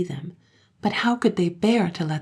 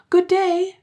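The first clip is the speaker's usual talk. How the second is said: blithely; 8 dB louder than usual. A narrator's reading. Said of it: "she repeated".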